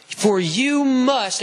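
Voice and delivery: "must" stretched long and loud; emphatic stress on must. Real, not acted. Preacher reading scripture to the congregation, leaning hard on "must".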